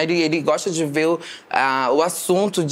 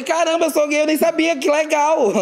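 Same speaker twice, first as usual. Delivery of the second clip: surpresa falsa, bem mais aguda; fingida surpresa; 10 semitones higher than usual. Retold or imitated. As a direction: finge espanto exagerado, voz lá em cima. Ironia de descobrir ser gay. (espanto fingido, bem agudo)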